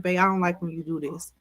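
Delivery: soft, patient partner voice; gentle coddling. Retold or imitated. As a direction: ease into it kindly. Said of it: "coddle me in the conversation".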